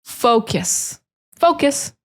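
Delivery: teacher models focus to the class; stressed fo. Shown as a demonstration. Teacher stresses fo in focus. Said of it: "really emphasize that fo".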